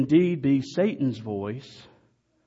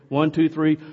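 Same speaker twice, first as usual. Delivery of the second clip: count-in shout; 3 semitones higher, 7 dB louder than usual. Real, not acted. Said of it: "Are you ready?".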